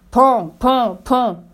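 spoken knocks, firm and punchy; firm "pan" knocks; knocking sounds. A narrator's reading. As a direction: knock with the voice, beat by beat. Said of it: "Il frappa".

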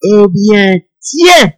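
high, slow, crying-out threat; menacing frost spirit. Acted. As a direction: snarl it like an annoyed frost spirit. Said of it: "Il prend un air mauvais".

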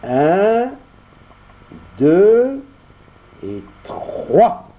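counting out loud, rising; compter à haute voix. Acted. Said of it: "compta à haute voix". (compter à haute voix)

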